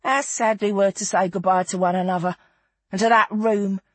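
a touch of theatrical reminiscence; Feathers, nostalgic storyteller. Acted. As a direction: carry the tale along with feeling. Narrator voices Feathers continuing her tale.

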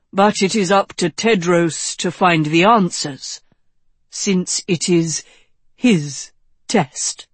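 a touch of a mentor's measured, emphatic delivery; lightly voiced wise wizard. Wizard challenging the young king about the sword, lightly voiced mentor. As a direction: press the point as the old wizard, lightly.

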